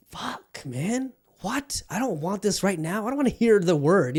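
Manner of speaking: mock inner groan of reluctance; acted reluctant dismay. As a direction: start under the breath, build into protest. Acted reluctant reaction to the question.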